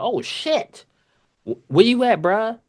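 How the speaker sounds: high, loud alarmed call to a coworker. Retold or imitated. Cook running to a struggling coworker, high alarmed call. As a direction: rush over, startled and urgent.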